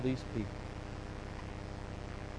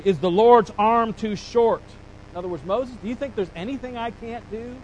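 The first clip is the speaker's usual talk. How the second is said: God's challenge; 4 semitones higher than usual. Retold or imitated. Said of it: "God answers".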